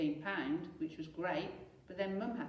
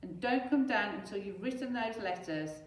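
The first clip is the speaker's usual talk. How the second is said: raised, firm command; a firm mother's shout; Mum shouting; 3 semitones higher, 5 dB louder than usual. Acted. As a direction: back Dad up loudly. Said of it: "shouted Mum".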